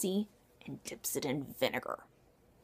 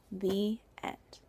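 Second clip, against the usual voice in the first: whispered ending. A narrator's reading. Closing a children's story.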